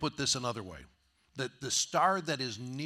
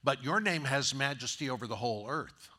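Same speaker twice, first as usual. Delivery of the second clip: earnest praise. Retold or imitated. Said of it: "And, and David says".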